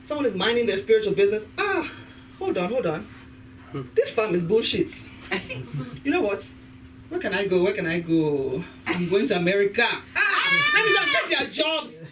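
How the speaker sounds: lightly hammed-up Nigerian farmer; mock Nigerian villager. Nigerian farmer deciding to go to America, mock fed-up voice. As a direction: play a fed-up farmer hatching a plan. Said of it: "what exactly do you think is going on in, in Nigeria".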